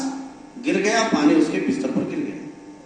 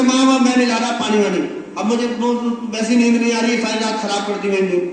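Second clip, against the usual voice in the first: annoyed son; 3 semitones higher than usual. Retold or imitated.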